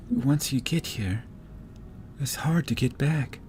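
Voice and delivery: high, slightly soft elf; elf woman. Acted. Elf warns travelers about getting back, high careful voice.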